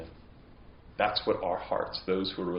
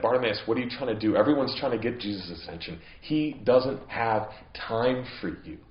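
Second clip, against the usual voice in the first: annoyed hushing; 3 dB louder than usual. Retold or imitated. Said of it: "tell him to be quiet".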